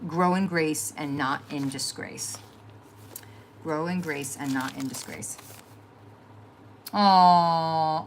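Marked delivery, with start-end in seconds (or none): 0.1-2.4 each word drawn out slowly, like a cherished saying; slow quoted motto. Retold or imitated. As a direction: read it slowly and deliberately, savoring it. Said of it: "my favorite one he used to say".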